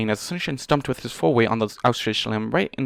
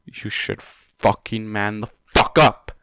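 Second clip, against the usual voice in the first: slow, louder scolding of the character; angry, slow scold; 4 dB louder, slower than usual. Real, not acted. Reader scolding the hero, slow and angry. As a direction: drag each word out in anger. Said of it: "I'm so fucking mad at you".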